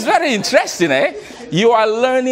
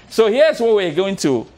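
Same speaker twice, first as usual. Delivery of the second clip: ordinary delivery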